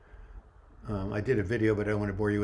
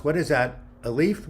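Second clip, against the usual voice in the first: raised, higher quiz voice; counselor asking; 4 semitones higher, 4 dB louder than usual. Retold or imitated. Counselor quizzing kids about a leaf, raised voice. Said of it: "Point to something else".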